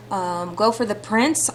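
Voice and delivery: ordinary talk, nothing marked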